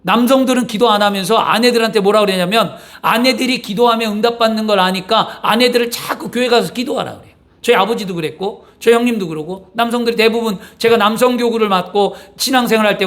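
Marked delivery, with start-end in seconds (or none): none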